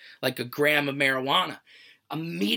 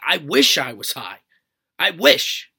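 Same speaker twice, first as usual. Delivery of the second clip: frustrated shout; 6 dB louder, slower than usual. Retold or imitated. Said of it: "I keep telling them".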